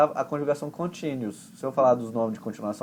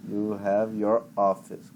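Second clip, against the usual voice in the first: slow, lower repeat of the phrase; slow model phrase; 4 semitones lower, slower than usual. Shown as a demonstration. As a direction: say it slowly for her to copy. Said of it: "Mas eu perguntei assim".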